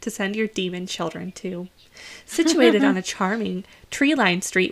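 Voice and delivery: gushing real estate agent pitch; realtor voice. Acted. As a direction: sell the house like a cheerful realtor. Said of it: "back to my realtor voice".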